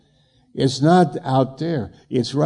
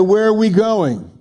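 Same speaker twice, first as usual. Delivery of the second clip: retold puzzled question; 8 semitones higher than usual. Son asking his bossy mother, high and baffled. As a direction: act baffled by the order. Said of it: "I go".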